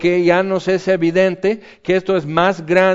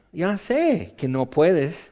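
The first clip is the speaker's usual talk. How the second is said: calm reassurance; 5 dB quieter, slower than usual. Pretend. God answers calmly.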